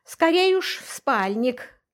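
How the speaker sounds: slow, wry grumbled tease; mocking grumble. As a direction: drawl it out mockingly. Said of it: "насмешливо проворчал он".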